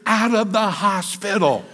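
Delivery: hammed-up yell of the wife in labor; imitating the wife screaming him out of the hospital; retold scream. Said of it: "she screams".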